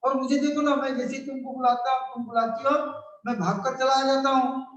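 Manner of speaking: put-on a boy pleading for an answer; child Rahul. Rahul presses his mother why father won't come, high child voice. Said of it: "वो कहता".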